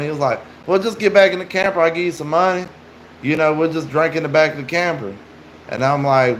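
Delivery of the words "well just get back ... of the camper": higher pitch, easing down at the end; retold persuasion, pitched up; imitated coaxing stranger. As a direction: lightly voice a stranger pressing an invitation. Stranger luring with money, retold.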